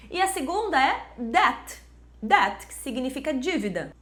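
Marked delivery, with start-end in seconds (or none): 1.2-1.8 "debt" as "det"; silent B. Shown as a demonstration. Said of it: "simplesmente não é pronunciada". 2.2-2.7 "debt" as "det"; silent B. Shown as a demonstration. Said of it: "simplesmente não é pronunciada".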